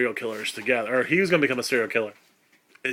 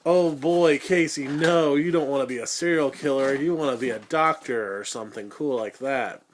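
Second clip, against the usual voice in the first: mock worried adult. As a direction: lecture Casey like a fussy parent. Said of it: "And everybody's like".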